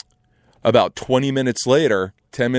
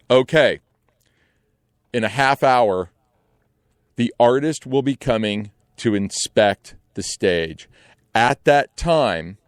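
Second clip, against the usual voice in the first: stern announcement; slower than usual. Retold or imitated. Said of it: "he goes".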